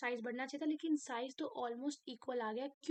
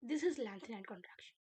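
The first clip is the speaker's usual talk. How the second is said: slow emphatic; 3 semitones lower, much slower than usual. Shown as a demonstration. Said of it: "teacher stresses key term".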